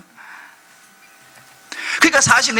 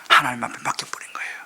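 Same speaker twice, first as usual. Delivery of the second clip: lower, soft whispered answer; hushed whisper; 9 semitones lower, 5 dB quieter than usual. Real, not acted. Pastor whispering the answer to the congregation.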